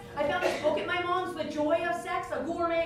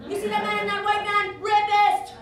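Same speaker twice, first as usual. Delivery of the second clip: stern dad; 3 semitones higher, 5 dB louder than usual. Retold or imitated. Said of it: "Dad, I'm ready for a boyfriend".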